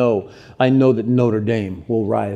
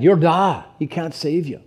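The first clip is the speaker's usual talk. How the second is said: put-on raised-pitch Irish accent; 5 semitones higher than usual. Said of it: "why am I still in the accent?".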